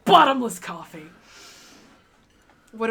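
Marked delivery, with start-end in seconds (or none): 0.1-1.0 loud exclaim. Acted. Echoing the exclaim.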